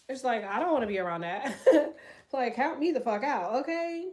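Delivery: laughing through the words, amused. Real, not acted. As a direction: chuckle as you say it. Laughs at serious energy.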